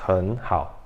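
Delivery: "han hao" grave e ligado, "han" no segundo tom; penúltimo tom trocado. Shown as a demonstration. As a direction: suba em "han" e emende o "hao". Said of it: "nessa entonação aqui, você vai ler". ("han hao" com "han" em segundo tom)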